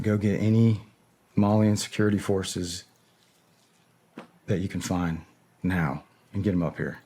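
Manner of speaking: an order given evenly, the original yell left out; calm retelling. Shown as a demonstration. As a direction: say it steady and composed. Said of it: "I said that very calmly just now. I was yelling it".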